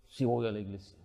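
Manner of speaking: low, soft, small voice giving in; meek sheepish reply. Retold or imitated. Son caving in to his father, low and meek. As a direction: back down quietly like a scolded kid. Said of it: "meek reply to father".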